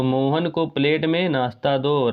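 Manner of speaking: the corrected "Mohan को plate में नाश्ता दो" said slowly, word by word; slow it down to model the right sentence; slow correct version. Shown as a demonstration. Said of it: "ये शुद्ध रूप हो जाएगा".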